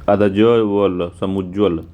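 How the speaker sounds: आधा ज वल said very slowly, letter by letter; slow spelling out. Shown as a demonstration. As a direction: dictate समुज्ज्वल piece by piece. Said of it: "दो बार ज होता है". (अक्षर-अक्षर धीरे बोलकर)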